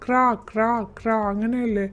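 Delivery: mild caw of a crow; a gentle imitation of a crow for kids. Shown as a demonstration. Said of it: "കാക്ക എങ്ങനെയാണ് കരയുന്നത്?".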